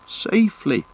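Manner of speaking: high, incredulous exclamation; scandalised high echo; indignant echo. A narrator's reading. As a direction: throw the word back in disbelief. Sam echoes the word in indignation.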